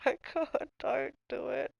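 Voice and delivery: high, alarmed mock plea; half-joking high pleading voice; mock panic. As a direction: squeal it like you're begging her to stop. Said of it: "I was like".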